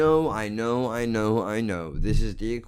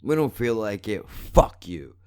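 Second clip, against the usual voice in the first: mocking YouTube voice. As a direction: sneer it like a lazy corporation refusing you. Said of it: "for the motherfuckers to go".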